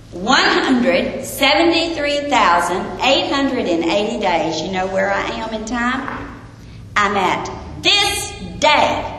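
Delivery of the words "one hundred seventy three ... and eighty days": slow, weighty count of one hundred seventy-three thousand eight hundred; slow deliberate counting. Shown as a demonstration. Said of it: "And if I take that day and count".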